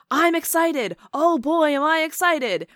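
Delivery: loud, high-pitched mock excitement; excited Don King. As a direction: imitate an over-excited promoter, booming and high. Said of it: "he was just so excited".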